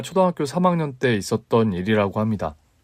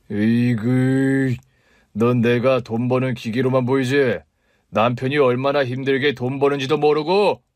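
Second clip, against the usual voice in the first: scornful angry husband. Acted. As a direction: sneer at the wife's complaints. (아내를 무시하며 크게 짜증내는 남편)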